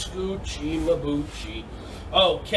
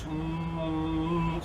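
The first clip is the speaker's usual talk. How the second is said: ear-cleaning hum; 4 semitones lower, 7 dB quieter than usual. Shown as a demonstration. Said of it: "just like that".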